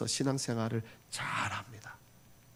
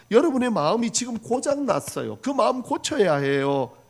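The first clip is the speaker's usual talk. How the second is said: high, loud rebuke to a quarrelling church; Paul's loud voice; 8 semitones higher, 4 dB louder than usual. Acted. Paul loudly rebuking the Philippian believers, a loud high rebuke. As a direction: call them out with Paul's raised voice. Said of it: "바울이 큰 목소리로".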